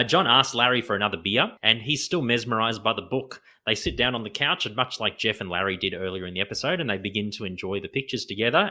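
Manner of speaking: ordinary talk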